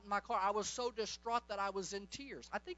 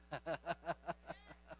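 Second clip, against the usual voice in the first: laugh; 7 semitones lower, 9 dB quieter than usual. Real, not acted. Laughs after telling of healing.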